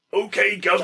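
hammed-up British accent from an American; mock British accent. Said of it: "in that legendary attempted British accent".

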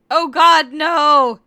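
loud high hammed-up scream. Sesshomaru screaming in mock agony, loud. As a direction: shriek it out, over the top. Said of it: "Sesshomaru screamed".

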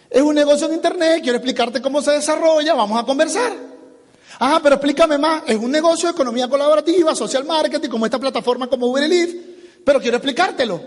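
high-pitched, brisk pitch patter; eager sales script. Shown as a demonstration. Trainer models answering an online contact, eager and high.

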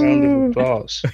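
high excited call. Pretend. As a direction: shout it up high. Echoing applause call playfully.

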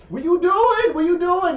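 high, loud repeated question; hammed-up outraged yelp; alarmed protest. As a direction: demand it in comic panic.

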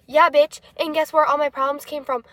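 lively, mildly indignant rant; comic rant. Real, not acted. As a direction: rant with playful outrage. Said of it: "that was my little rant".

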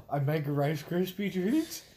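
talking with a mouthful of cookie; mouth full. Real, not acted. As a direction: speak around a bite of cookie. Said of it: "mouth full of a really delicious cookie".

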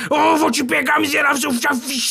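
lunge at him with your voice; mock furious shout; angry threat. Enraged at the greedy suitor.

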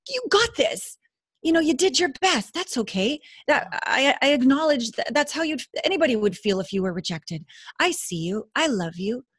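a gently voiced loving God cheering you on; loving divine voice. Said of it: "that's how the divine would talk".

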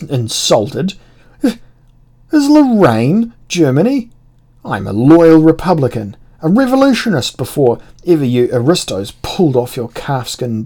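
loud, indignant protest; aggressive outburst. Acted. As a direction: go on the attack, outraged. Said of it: "Aggression was my only rhetorical weapon".

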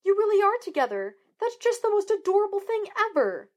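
thrilled screeching Juliet voice. A narrator's reading. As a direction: shriek it in giddy excitement. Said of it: "Juliet screeched".

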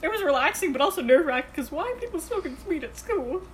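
lisping with chips in mouth; mouth full. Real, not acted. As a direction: talk around a mouthful of chips. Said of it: "I have chips in my mouth. Don't make fun of my lisp".

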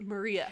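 Maria with a soft "eh" ending; E H sound. Shown as a demonstration. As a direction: end Maria on a short "eh", not a full A. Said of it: "an E H sound".

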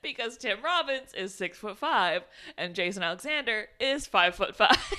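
talking through giggles; can't keep a straight face over the stairs trick; laughing. Real, not acted. Laughing about the height trick.

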